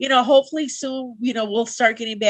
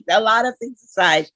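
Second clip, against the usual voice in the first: laughing; 4 dB louder than usual. Real, not acted. Repeats phrase through a laugh.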